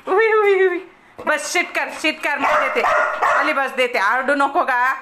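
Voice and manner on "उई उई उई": startled cry. Real, not acted. Bird grabs at her.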